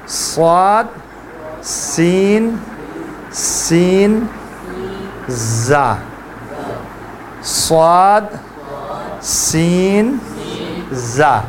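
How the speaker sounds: صاد سین زا each sounded with a whistling hiss; letter sounds. Shown as a demonstration. Teacher drilling the three whistling letters, hissed. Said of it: "یہاں سے تین حروف کے sound نکلتے ہیں".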